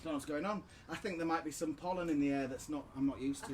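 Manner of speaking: hoarse, fading voice; croaky voice giving out; losing voice. Real, not acted. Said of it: "my voice is going".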